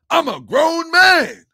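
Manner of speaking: mocking quote. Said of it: "These are boys with mustaches".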